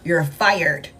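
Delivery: low, flat firing; a boss coolly firing someone; cold boss voice. Retold or imitated. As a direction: drop the voice low and dismiss them. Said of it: "It's like".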